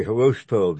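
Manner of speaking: "Hiroshito" with a sh before the final -ito; pronounced with sh. Real, not acted. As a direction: say "Hiroshito", sh in place of the second h. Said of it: "pronounced Hiroshito".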